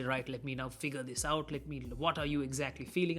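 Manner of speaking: methodical doctor. Acted. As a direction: work through it methodically, like a doctor. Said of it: "all methodical and logical and mechanical like a doctor".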